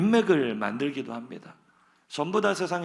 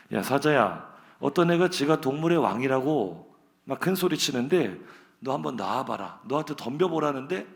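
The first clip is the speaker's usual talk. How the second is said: rabbit calling out, a bit louder; lightly acted call through a door; 3 dB louder than usual. Rabbit calls lion out at door.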